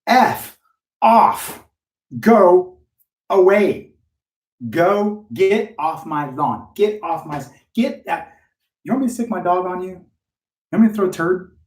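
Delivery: angry homeowner. Retold or imitated. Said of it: "They're like".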